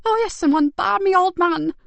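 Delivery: high, loud mocking aside; scornful quip; sarcastic carer. Carer sneering about the old man.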